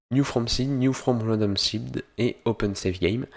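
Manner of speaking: English menu names in a French accent. Real, not acted. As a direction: read the English terms with a real French accent. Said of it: "Désolé pour mon accent anglais".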